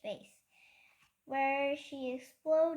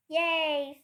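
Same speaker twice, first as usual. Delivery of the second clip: cheer; 2 semitones higher, 8 dB louder than usual. A narrator's reading. Peter cheers at winning.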